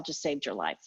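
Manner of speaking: fast, hushed whisper; quick awed whisper. Retold or imitated. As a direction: drop to a whisper as if sharing a secret. Retelling the doctors' verdict.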